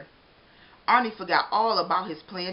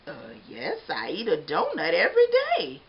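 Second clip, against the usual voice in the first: sheepish; 5 dB louder than usual. Acted. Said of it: "Mister Bing said sheepishly".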